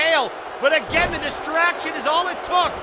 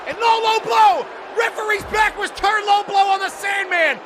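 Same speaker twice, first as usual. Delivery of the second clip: shouting; 3 semitones higher than usual. Real, not acted. Commentator outraged at illegal move.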